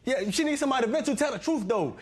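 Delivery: mocking. Husband mocks wife's friend.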